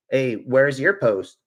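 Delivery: slow, drawn-out mock challenge; mocking quote. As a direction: drag it out like a taunt. Quoting a commenter's jab mockingly.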